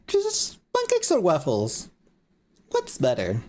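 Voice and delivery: replaying the chibi voice, a bit high; lightly echoed chibi voice. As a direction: lightly redo the cutesy chibi line. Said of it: "I'm like".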